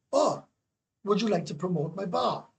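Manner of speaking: high mimicked owner's voice; high, chirpy mock owner; mimicking the bar owner. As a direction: pitch it up to quote her. Retold owner's question, high pitch.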